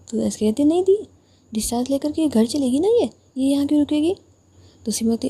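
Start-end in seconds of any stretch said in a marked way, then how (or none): 0.6-4.1 startled protest. Acted. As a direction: burst out in protest. Sister protests leaving rival behind.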